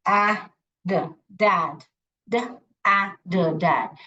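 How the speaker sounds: sounds stretched and drawn out one by one; slow blending. Shown as a demonstration. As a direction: sound out each letter slowly and deliberately. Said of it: "डैड पढ़ना अच्छा लग रहा है". (धीरे-धीरे ध्वनि जोड़कर पढ़ना)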